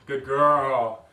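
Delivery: drawn-out, cooing praise; puppy praise. Shown as a demonstration. Trainer praises the puppy after throwing a toy, drawn-out praise. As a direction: praise a puppy with a stretched-out word.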